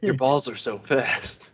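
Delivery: slow silly put-on voice; goofy mock voice. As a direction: drag it out goofily. Joking, mock voice.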